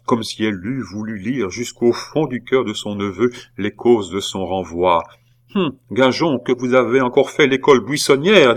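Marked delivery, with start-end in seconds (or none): 5.6-8.6 accusing aunt. A narrator's reading.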